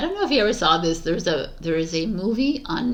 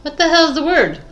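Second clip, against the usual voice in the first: giggling through the words; can't stop laughing mid-line; 5 semitones higher, 10 dB louder than usual. Real, not acted. Laughing fit while recording.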